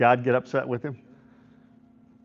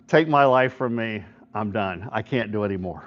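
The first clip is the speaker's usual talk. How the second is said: discouraged; 5 semitones lower than usual. Retold or imitated. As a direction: imitate a man giving up. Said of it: "he gets discouraged".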